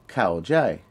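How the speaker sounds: "kao" falling, "jai" held mid; falling then mid tone. Shown as a demonstration. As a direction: drop on "kao", level out on "jai". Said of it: "which is a falling, then medium tone".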